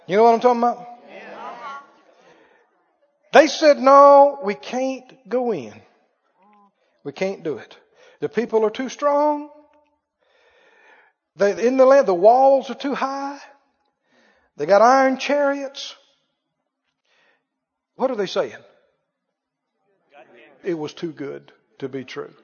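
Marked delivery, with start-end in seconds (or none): 3.8-15.9 defeated whine. Acted. Spies' discouraged report acted out. 20.6-22.3 much lower and softer, defeated; hopeless mumble, much quieter; mopey defeatist. Acted. Voicing the doubting spies.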